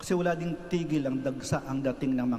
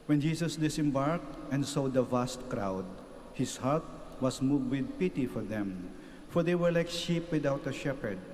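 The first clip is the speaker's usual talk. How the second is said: measured, solemn proclamation to the congregation; gospel reading. Acted. Priest proclaiming the gospel to the gathered faithful, solemn reading. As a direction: read it out like scripture at Mass, steady and unhurried.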